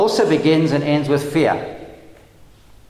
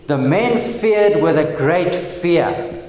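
slow, with "feared" and "fear" both stressed; "feared" and "fear" each given deliberate weight; double emphasis; slower than usual. Shown as a demonstration. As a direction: lean slowly on "feared" and again on "fear". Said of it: "that's a double emphasis on fear".

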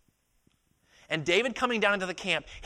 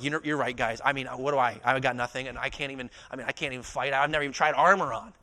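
mock self-deprecating backing down; lightly acted meek excuse-making; fake humility; 3 semitones lower than usual. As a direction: play at being humble and helpless. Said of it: "fake humility would be like".

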